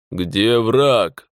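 gurgling voice, as if through water; drowned ghost. A narrator's reading. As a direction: speak with a gurgle in the throat. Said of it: "булькающим голосом".

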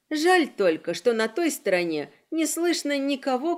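plain reading voice

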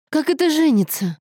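high-pitched incredulous question; stunned, indignant outburst; shocked exclamation. A narrator's reading. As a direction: exclaim in utter disbelief. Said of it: "воскликнула Аньеза".

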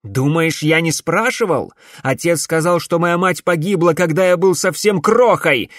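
loud, high anguished outburst; exclaiming. A narrator's reading. Alex cries out to his mother about her death. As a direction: cry it out, hurt. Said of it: "воскликнул Алекс".

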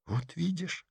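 soft hissed reproach; hissing. Acted. Masha hisses at Petrov in the cinema. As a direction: hiss it through the teeth. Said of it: "зашипела Маша".

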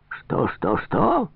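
repeated "что" leaping up very high; offended squawk, rising at the end; indignant questioning. Acted. Insulted trader to Farkov, high indignant query.

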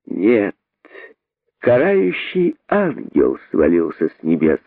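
slow, mock-solemn sarcasm; understated, measured taunt; sarcastic jibe. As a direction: draw the answer out sarcastically. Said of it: "съязвила мартышка".

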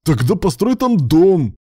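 loud, slow, high bark; barked order. A narrator's reading. Husband barking at spouse in anger, loud. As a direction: snap the order out. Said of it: "рявкнул Руслан".

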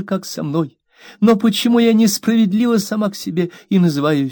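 high, aggrieved plea; mother scolding her maid, high and hurt; wounded young mother. A narrator's reading. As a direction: play the hurt, fragile mistress. Mother voiced in hurt quarrel.

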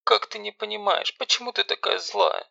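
high, tearful sister begging; tearful, high young girl pleading. Acted. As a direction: plead through tears, voice up high. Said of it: "со слезами в голосе".

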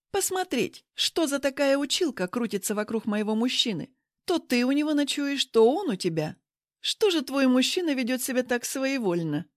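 mock her with a rising sneer; sneering rival. Rival mocks the teacher.

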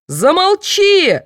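very high, loud, slow roar; guard yelling at the hysterical prisoner; yelled. A narrator's reading. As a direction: yell it down at her. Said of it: "заорал охранник".

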